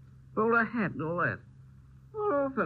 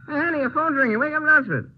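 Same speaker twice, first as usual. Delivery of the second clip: louder, higher call through the door; shout; 8 semitones higher, 6 dB louder, faster than usual. Acted. Drunk man shouting for friend through a door. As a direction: bang on the door with your voice.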